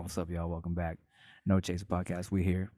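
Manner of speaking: low, soft, tired greeting; toned-down intro. Shown as a demonstration. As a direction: drop it down, sleepy and quiet. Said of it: "so I just toned it down".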